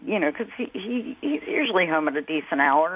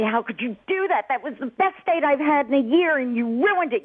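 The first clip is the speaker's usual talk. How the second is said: retold screaming; 5 semitones higher than usual. Caller retells her son screaming at her over his ruined date, mildly heated. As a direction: retell an angry son's outburst, slightly raised pitch. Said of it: "screaming at me".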